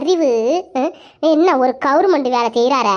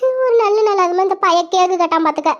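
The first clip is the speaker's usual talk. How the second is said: crying through the words; tearful lament; 3 semitones higher than usual. Acted. Wife telling her friend about the ruined new year, crying. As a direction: voice breaking into a sob as she complains.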